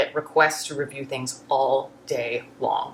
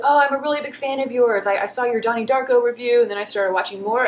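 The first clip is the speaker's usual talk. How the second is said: high, gushing imitation of an excited fan; enthusiastic fan; 7 semitones higher than usual. Bartender gushing to a favorite YouTuber, imitated enthusiasm. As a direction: gush in a pitched-up fan voice. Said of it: "He was so enthusiastic".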